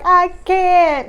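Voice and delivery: high, loud I can't; worn-out protest; high pleading refusal. Retold or imitated. Exhausted mother refusing.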